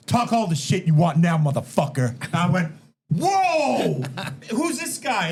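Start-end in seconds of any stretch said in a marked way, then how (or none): 0.1-2.1 louder snarl; Brock taunt. Retold or imitated. Brock taunting the beaten opponent, louder. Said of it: "Brock's in his face". 3.1-5.3 be amazed by it; retold surprise. Reliving his surprise at Brock for the guys, high.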